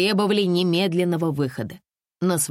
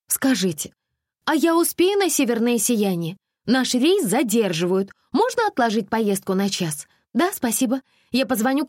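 put-on higher, girlish phone chatter; chatty young woman; 7 semitones higher than usual. A narrator's reading. Alisa calls the aurora tour, lightly voiced chirpy girl. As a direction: sound naive and chirpy on the phone.

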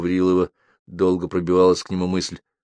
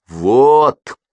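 triumphant; 6 semitones higher, 9 dB louder than usual. A narrator's reading. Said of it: "торжествующе промолвил Ковалёв".

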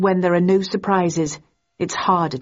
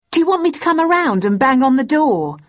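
higher, louder angry threat; voice rising; 8 semitones higher, 5 dB louder than usual. A narrator's reading. Thursday threatening Daisy on the phone, voice rising. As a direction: let the voice climb. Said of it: "my voice rising further".

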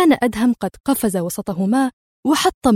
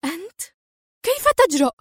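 much higher, outraged shriek; screaming; 9 semitones higher, faster than usual. Acted. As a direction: explode at his betrayal. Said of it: "وهي تصرخ".

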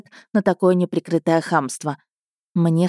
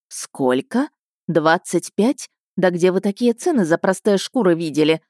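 indignant. Acted. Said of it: "возмутилась женщина".

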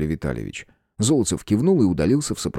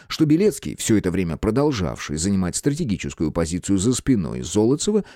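usual speaking voice

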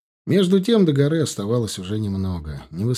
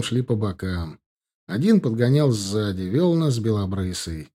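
ordinary delivery

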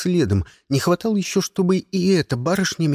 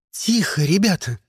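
raised teacher voice to hush the class; teacher hushing the noisy kids, raised voice; sharp call for quiet; 4 semitones higher than usual. A narrator's reading. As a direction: snap the class into silence. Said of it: "прикрикнула Робин".

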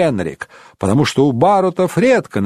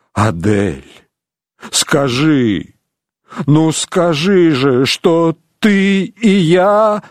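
choked pleading; 4 semitones lower, much slower than usual. Acted. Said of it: "с трудом выдавил Рейнован сквозь стиснутое горло".

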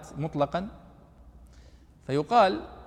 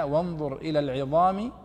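Quran recitation; slower than usual. Shown as a demonstration. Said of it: "في قوله سبحانه وتعالى".

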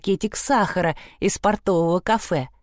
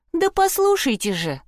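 high pleading cry; 10 semitones higher than usual. Acted. Trude begging the girls to listen, high plea. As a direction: beg them to listen, voice lifted high. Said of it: "взмолилась Труда".

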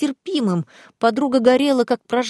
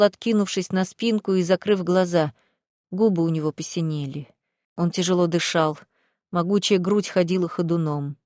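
plain reading voice

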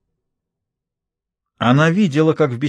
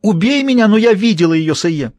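desperate strangled cry; 9 semitones higher, 5 dB louder than usual. A narrator's reading. Maid being strangled pleads.

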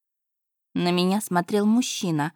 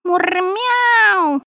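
very high, loud yowled miaow; cat's wild yowl; 12 semitones higher, 7 dB louder than usual. A narrator's reading. The cat yowls as the spirit grabs him, high and loud. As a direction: howl like a cat in a strange voice. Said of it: "взвыл не своим голосом".

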